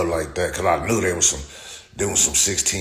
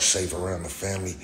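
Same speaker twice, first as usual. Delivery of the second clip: usual speaking voice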